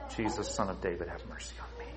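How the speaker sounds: retold cry for mercy. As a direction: murmur the cry for mercy softly. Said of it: "is to cry out".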